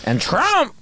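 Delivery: mock American accent. Redneck character praising Trump.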